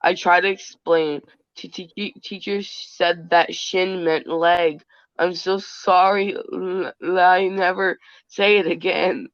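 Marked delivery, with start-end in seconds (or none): 1.6-9.3 a mild imitation of a scared child's stutter; a hint of a sobbing kid tripping over the first sounds; stammering crying child. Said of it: "That's exactly how I said it".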